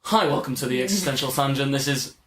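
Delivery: lightly voiced podcast host; a hint of a smooth presenter read; mild mock podcast intro. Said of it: "He has his podcast voice".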